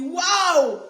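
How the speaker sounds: loud high mock wow; hammed-up amazed wow; surprised wow. Surprised reaction to enemy message.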